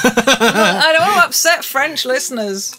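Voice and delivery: laughing while she talks. Real, not acted. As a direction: talk through the laugh. Laughs at the French accent dare.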